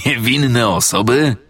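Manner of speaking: ordinary delivery, nothing marked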